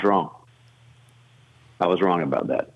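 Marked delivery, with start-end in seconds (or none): 1.8-2.7 lower, softer and more humble; sincere admission. Retold or imitated. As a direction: let it land gently, with humility. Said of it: "paused and said the following".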